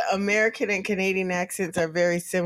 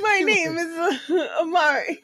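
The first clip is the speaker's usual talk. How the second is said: Italian accent; 6 semitones higher than usual. Shown as a demonstration. Introducing an Italian character to a friend, Italian accent. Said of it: "Give me an Italian".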